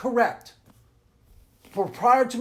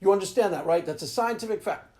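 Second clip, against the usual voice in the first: ordinary talk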